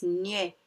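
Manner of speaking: "niais" slowly, gn joined to an open e; syllable demonstration. Shown as a demonstration. Teacher showing pupils gn with E, "niais" said slowly and distinctly. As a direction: sound out "niais" as one slow syllable. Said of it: "on le prononce".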